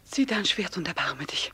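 low whispered plea; pleading whisper. Acted. Amalia begging Karl to kill her, whispering. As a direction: beg him softly.

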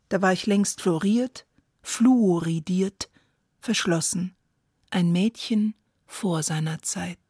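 measured poem ending with weighted pauses; deliberate, settling recitation; poetry recitation. Acted. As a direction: set each phrase apart, bringing the poem to a close. Poet recites her own poem.

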